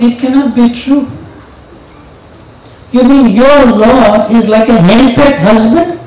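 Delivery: lightly voiced teasing Parvati; teasing wife. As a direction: needle your husband playfully. Parvati teasing Shiva about Rama.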